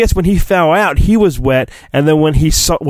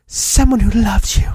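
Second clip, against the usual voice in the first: soundbite; 6 semitones higher than usual. Acted. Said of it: "That's my own soundbite".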